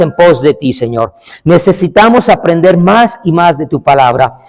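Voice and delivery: earnest congregational prayer in measured phrases; public prayer. Real, not acted. Preacher praying to God for the congregation, earnest public prayer. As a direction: lead the room in prayer, phrase by phrase.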